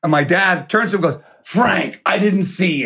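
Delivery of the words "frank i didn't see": higher-pitched mock-innocent greeting; feigned surprise. Dad to Sinatra after snubbing him, put-on pleasant surprise. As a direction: imitate a man pretending he only just noticed.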